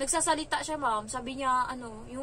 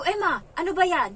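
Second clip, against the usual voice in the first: louder, higher exasperated reproach; retold scolding; 6 semitones higher, 8 dB louder than usual. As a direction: tell off a child, as retold. (pasigaw na saway)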